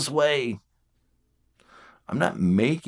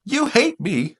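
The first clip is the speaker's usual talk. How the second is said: mock wounded partner; 14 semitones higher, slower than usual. Voicing a hurt six.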